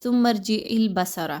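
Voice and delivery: بصرہ with a thin س-like sound for ص, shown as the error; wrong recitation. Shown as a demonstration. Teacher shows students the wrong way, then a slow recited demo. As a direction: demo of the common mistake, light ص. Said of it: "اکثر لوگ یہاں پہ کیسے پڑھتے ہیں".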